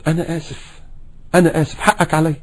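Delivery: soft sincere apology; a husband apologizing softly to his wife; gentle apology. Shown as a demonstration. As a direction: say sorry tenderly. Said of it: "يا ريت لما نغلط".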